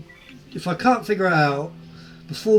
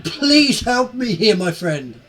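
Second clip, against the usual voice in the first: praying; 5 semitones higher, 3 dB louder, slower than usual. Acted. Player prays aloud to god.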